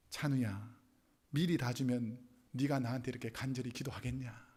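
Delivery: low, measured divine voice addressing one person; voice of God. Retold or imitated. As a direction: speak down low, gently questioning like God. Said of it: "하나님의 음성을 듣게 됐습니다". (낮은 목소리로 타이르는 하나님 음성)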